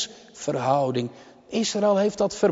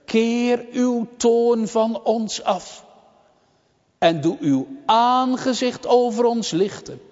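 high, sustained preacher's plea; solemn, insistent supplication; imploring prayer; 6 semitones higher than usual. Retold or imitated. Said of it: "In vers negentien bidt hij".

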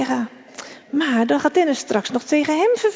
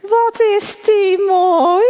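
slow, high mocking squeak; mock him in a weird high little voice; pitched-up taunting whine; silly high voice; 8 semitones higher, 5 dB louder, much slower than usual. A narrator's reading. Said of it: "Dennis maakt een raar hoog stemmetje".

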